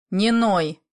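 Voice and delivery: ordinary delivery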